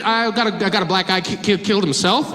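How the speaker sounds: halting, stuttering radio report; flustered stammer. Acted. Officer radios dispatch about driver, flustered stammer. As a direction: stumble over the words like a baffled cop.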